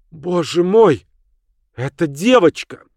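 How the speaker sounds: shocked gasp. Acted. Alicia, startled, spots a girl below. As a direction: blurt it out in alarm.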